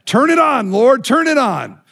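acted-out joyful plea to the Lord; excited plea. Overwhelmed old pastor praying to the Lord for joy, excited plea. Retold joyful prayer cried out.

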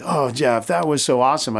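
mildly gushing praise, lightly acted; imitating excited staff. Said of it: "my staff is all excited".

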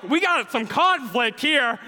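high, loud, drawn-out mock alarm; onlookers' reaction. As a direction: imitate onlookers, slowly and loudly. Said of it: "Some people were like".

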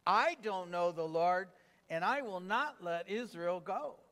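"I" and "not" punched, measured pace; emphatic reading. Shown as a demonstration. Preacher reading Pharaoh's refusal with the congregation, emphatic. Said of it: "read this next with emphasis".

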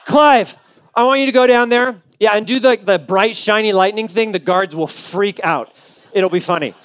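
lightly voiced posh British angel boss; a hint of an English boss giving orders; weird British angel. God sending the angel Clive down, mock British voice. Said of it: "weird British guys".

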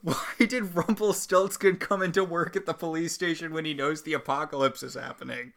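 high, loud incredulous questioning; pissed off. Real, not acted. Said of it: "I'm so pissed off right now".

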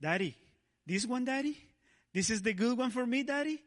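put-on high, quick child pleading; squeaky eager little girl; little daughter's voice. Imitating April begging daddy for a wave. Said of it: "April asking me about".

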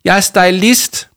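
high, loud, drawn-out wail; tearful protest. A narrator's reading. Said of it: "snøftede Jama". (højt, grådkvalt protest)

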